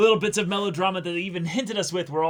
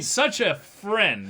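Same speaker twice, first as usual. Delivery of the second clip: mock sweetness; 7 semitones higher, 3 dB louder, much slower than usual. Mocking the dad's fake praise.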